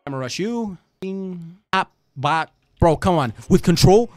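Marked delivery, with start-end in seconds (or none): 2.8-4.1 loud, rising frustrated shout; loud exasperated question; exasperated yell. Real, not acted. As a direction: yell it at the screen in disbelief. Frustrated gamer yelling at game.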